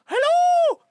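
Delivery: shrieking, very high, loud Irish caricature; stereotypical Irish accent. Retold or imitated. Mocking the stereotypical Irish accent, shrieked caricature. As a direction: yell it like an over-the-top Irish stereotype. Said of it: "everyone picks the one that doesn't exist".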